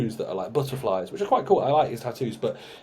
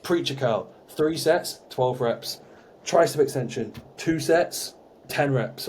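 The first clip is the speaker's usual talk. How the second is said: mock monotone gym bro; slower than usual. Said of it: "he says it, like, really monotone".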